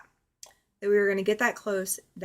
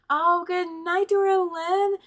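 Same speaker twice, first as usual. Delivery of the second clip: sing-song farewell to a departing friend; bright excited goodnight; 9 semitones higher, 6 dB louder than usual. Real, not acted. Streamer calls goodnight to a viewer leaving, high and loud. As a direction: call out goodnight loudly and high. Chat viewer heading to bed.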